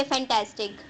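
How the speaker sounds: फैंटास्टिक said evenly, without rhythmic stress. Shown as a demonstration. Teacher showing what lacks rhythm, unstressed फैंटास्टिक. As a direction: run through फैंटास्टिक with no syllable picked out. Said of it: "इसमें तो कोई rhythm नहीं है".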